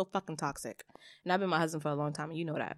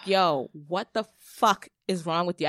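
retold yell; 6 dB louder than usual. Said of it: "I was like".

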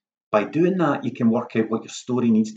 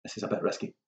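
hesitant inner voice; 3 semitones lower, 10 dB quieter, faster than usual. Pretend. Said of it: "weighing up".

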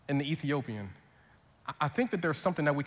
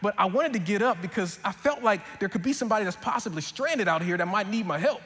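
put-on held Southern accent, slightly higher than usual; lightly voiced Southern man, sincere; 3 semitones higher than usual. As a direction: tell it like an earnest Southern mechanic. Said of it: "stick with this accent".

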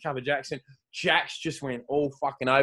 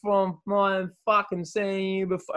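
slurred, slow mock drunk babble, a bit louder; drunk incoherent woman; 3 semitones higher, 3 dB louder, slower than usual. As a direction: ham up a wasted fan slurring her words. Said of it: "She was incoherent".

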